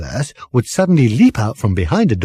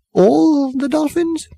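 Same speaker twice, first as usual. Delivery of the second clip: much higher and slow, incredulous; astonished disbelief; slower than usual. A narrator's reading. Arthur can't believe Fenchurch about the dolphins, incredulous. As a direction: stretch it out in disbelief.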